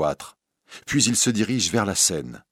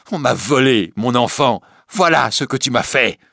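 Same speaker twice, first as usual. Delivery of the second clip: loud, raised, bitter reproach; anguished accusation; 5 semitones higher, 6 dB louder than usual. Acted. Recluse robbed of her child, accusing bitterly. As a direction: accuse with a mother's grief.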